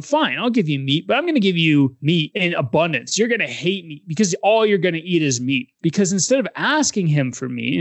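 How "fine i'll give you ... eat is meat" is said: a hint of spite, lightly voiced; God answering the grumbling people with mild spite; spiteful. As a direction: grudgingly give in, then twist the knife. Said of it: "there's a hint of spite there".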